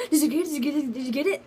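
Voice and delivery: high, eager repeated questions, fading; eager friends. Retold or imitated. Friends outside the office asking eagerly, high and quick. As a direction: pester her like curious friends. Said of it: "they're like".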